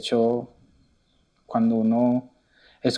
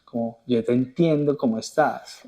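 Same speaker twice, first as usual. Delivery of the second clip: self-compassion; 3 dB quieter than usual. Retold or imitated. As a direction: comfort yourself like a dear friend. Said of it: "ejercicio de autocompasión".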